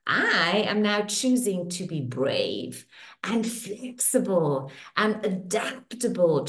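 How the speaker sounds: soothing tapping-session guide; guided affirmation. Acted. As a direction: speak each affirmation as a gentle promise.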